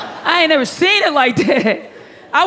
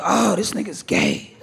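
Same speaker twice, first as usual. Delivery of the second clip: laughing disbelief; 4 semitones lower, slower than usual. Retold or imitated. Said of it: "my first thought was like".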